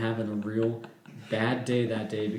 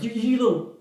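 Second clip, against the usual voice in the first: slow, higher insult; cussing out; 6 semitones higher, 5 dB louder, slower than usual. Retold or imitated. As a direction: spit the insult out, slowly. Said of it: "she started cussing at me".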